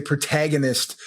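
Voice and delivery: protagonist said the American way; American pronunciation. Shown as a demonstration. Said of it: "whereas in America, we would say".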